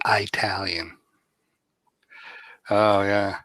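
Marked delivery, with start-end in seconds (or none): 0.1-1.0 Italian with a long "eye" at the front; Southern pronunciation of Italian. Retold or imitated. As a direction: say Italian as eye-TAL-yen. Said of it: "down here, they call it".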